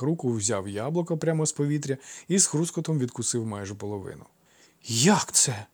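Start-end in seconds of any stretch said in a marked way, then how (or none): 4.8-5.7 baffled short question; puzzled. A narrator's reading. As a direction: ask in mild bewilderment. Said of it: "спантеличено спитав Іфікл".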